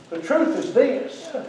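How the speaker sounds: soft, drawn-out repeat for weight; slow right down and drop the volume; slow and hushed. Real, not acted. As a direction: let it sink in, softly and slowly.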